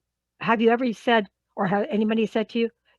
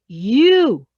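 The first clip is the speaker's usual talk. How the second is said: "you" loud and drawn out; accusing; 9 dB louder than usual. Shown as a demonstration. Trainer demonstrating a trigger word, accusing. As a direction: hit "you" hard, as blame.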